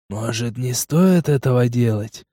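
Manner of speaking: slow, bored drawl; slightly bored. Acted. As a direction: ask it with mild boredom. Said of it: "Слегка скучающим голосом".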